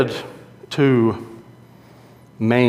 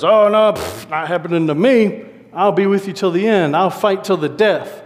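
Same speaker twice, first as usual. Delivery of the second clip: insistent vow; 4 semitones higher than usual. Retold or imitated. Peter vows loyalty at the supper.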